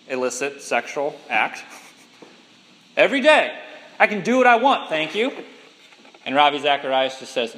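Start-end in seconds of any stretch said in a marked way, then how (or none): 3.0-5.3 rude retort. Retold or imitated. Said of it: "rudely says".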